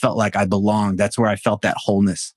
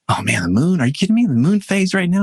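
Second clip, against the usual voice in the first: higher, incredulous whiny protest; mock excuse; 7 semitones higher than usual. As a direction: mimic a client dodging the work. Mocking a client's excuse.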